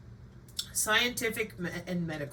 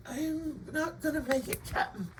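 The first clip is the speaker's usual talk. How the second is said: wounded soldier gasping; 6 semitones higher, 5 dB quieter than usual. Pretend. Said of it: "my pad's like".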